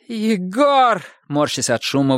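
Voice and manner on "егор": higher called name. Acted. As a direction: call his name sharply. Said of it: "выкрикнула медсестра Наталья".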